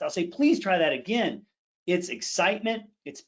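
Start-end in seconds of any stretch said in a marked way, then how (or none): 0.3-1.5 quick, urgent delivery in one breath; fast. Shown as a demonstration. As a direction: run the words together with urgency. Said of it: "if I say something fast".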